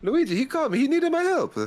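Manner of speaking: squeaky high pleading voice; hammed-up high Mario impression; high mock Mario voice. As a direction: raise it up and plead like a cartoon plumber. Voicing Mario pleading role.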